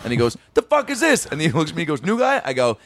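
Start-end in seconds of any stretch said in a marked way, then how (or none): 0.5-1.2 high, outraged mock challenge; retold angry demand. Retold boss repeats angry demand. 2.0-2.4 high-pitched retold challenge to a rookie; mock accusing question. Retold boss accusing new hire.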